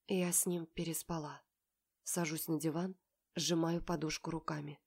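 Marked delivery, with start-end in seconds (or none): none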